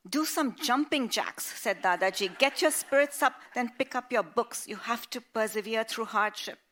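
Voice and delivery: loud, high rallying orders; hearty commands. Acted. Grandfather ordering Sonia to cheer up, loud and rousing. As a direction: buck her up like a drill sergeant. Grandfather barks advice down phone.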